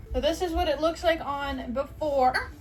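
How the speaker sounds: words broken by hiccups; speaking with hiccups. Real, not acted. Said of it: "the hiccups".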